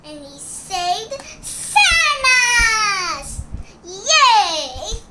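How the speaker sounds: high, loud, slow sing-song cheer; triumphant cheer. Pretend. Little superhero celebrating saving everyone, excited cheer. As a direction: celebrate the rescue.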